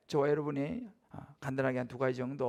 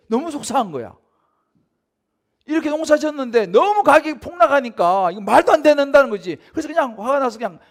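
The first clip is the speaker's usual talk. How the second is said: impassioned; 9 semitones higher, 13 dB louder than usual. Acted. Preacher voicing farmers' frustration.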